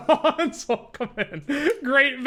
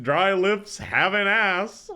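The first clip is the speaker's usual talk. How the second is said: slow, breaking into laughter; laughing; slower than usual. Real, not acted. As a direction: say it through helpless laughter. Repeating the line while laughing.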